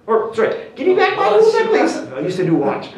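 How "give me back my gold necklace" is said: high, loud mock yell after a thief; robbed man shouting. Robbed man yells after fleeing chain thief, acted high shout. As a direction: holler it out in a pitched-up acted shout. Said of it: "the big black guy goes".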